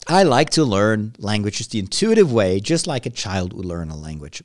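usual speaking voice

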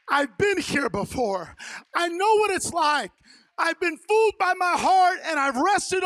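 urgent resolve. Acted. Peter running to Jesus, loud impassioned preaching. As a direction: drive it home with full force.

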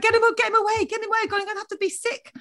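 high-pitched, laughing mock panic; laughing retold panic. Mother retelling her urge to be sick, laughing panic. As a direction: blurt it out high through laughter.

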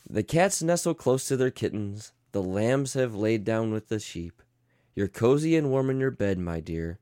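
lightly soothing storybook read; tender bedtime read with angry asides; bedtime story reading. Acted. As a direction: read it like a lullaby book. Reads bedtime story parody.

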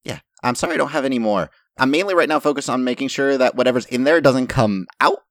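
Lorilla, mildly apologetic. Acted.

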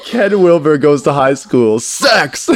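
slow, high and loud, cracking up; helpless laughter breaking through; laughing title announcement. Retold or imitated.

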